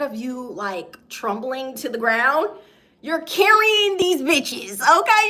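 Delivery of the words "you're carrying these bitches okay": high, loud, slow emphatic hype; hyped up. Real, not acted. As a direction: pump the viewer up. Hyping the viewer's strength.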